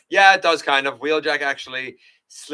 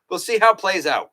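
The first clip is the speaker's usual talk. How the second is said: higher and louder, upbeat and punchy; bright emphatic take, higher and louder; 8 semitones higher, 6 dB louder, faster than usual. Acted. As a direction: announce it like a hopeful teaser. Says it twice, first raised.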